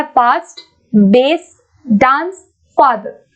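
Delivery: "फास्ट, बेस, डांस, फादर" said slowly, each word set apart; word-by-word demo. Shown as a demonstration. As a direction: sound out each word separately to compare the vowels. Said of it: "इसको हमें बोल के देखना पड़ेगा". (एक-एक शब्द अलग करके, धीरे बोलकर दिखाना)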